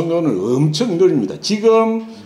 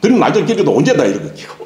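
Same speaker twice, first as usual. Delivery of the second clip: imitating fast teacher; 4 dB louder, faster than usual. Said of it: "저를 가르쳐준 선생님은 엄청 빨리 읽었습니다".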